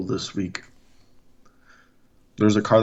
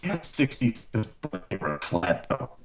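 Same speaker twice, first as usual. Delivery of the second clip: robotic voice; 6 dB quieter than usual. Real, not acted. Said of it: "You sound so robotic-y right now".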